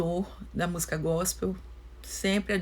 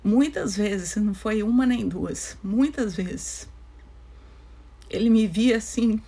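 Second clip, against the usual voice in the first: holding back sobs. Real, not acted. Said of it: "eu tô emocionada".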